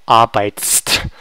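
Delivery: arbeitst with all final consonants crammed together; consonant pile-up. Shown as a demonstration. Teacher showing why it's hard to pronounce, consonant pile-up. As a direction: sound out every end consonant in arbeitst. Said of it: "there's too many consonants together".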